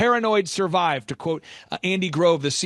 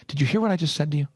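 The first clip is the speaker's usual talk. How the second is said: imitated adversarial coach, quick challenge; antagonistic Michael Levine; faster than usual. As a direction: fire it off as a brisk confrontation. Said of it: "He kinda talks like that. It's kind of antagonistic".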